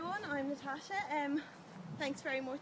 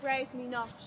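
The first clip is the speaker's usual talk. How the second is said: slow spoken-word poem delivery; poem reading. Acted. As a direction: recite each phrase with pauses. Poem recited at open mic.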